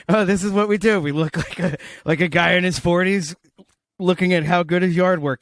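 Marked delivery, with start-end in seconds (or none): 0.1-1.0 laughing. Retold or imitated. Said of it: "repeats the brain's line".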